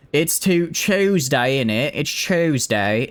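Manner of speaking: put-on playful British "Chewsday" accent; mock British accent. Streamer insisting on the day to chat, mock British accent. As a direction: put on a cheeky British "innit" voice.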